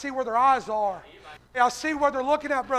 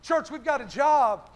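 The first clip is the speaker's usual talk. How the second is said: emphatic church sermon cadence; fervent preaching; 2 semitones higher, 5 dB louder than usual. Real, not acted. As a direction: proclaim it to the congregation. Preaches to congregation.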